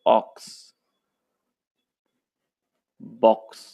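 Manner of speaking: teacher models short i words; word list read-aloud. Shown as a demonstration. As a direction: read each word clearly for the class. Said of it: "अगला जो हमारा vowel है".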